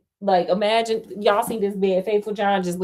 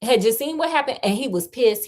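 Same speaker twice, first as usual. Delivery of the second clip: animated read-aloud, livelier than chat; fairy tale read out with emphasis; story narration; 4 semitones higher, 3 dB louder than usual. A narrator's reading.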